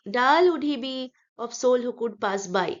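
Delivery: slow, measured verse line; poem reading. Shown as a demonstration. Teacher reads aloud for the rhyme, measured verse. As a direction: recite the line slowly up to its rhyme word.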